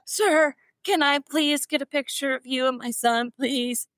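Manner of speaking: high, pleading starstruck fan; imitating her high, gushing younger self; gushing fan plea. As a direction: beg him like a starstruck fan. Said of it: "that kinda hello".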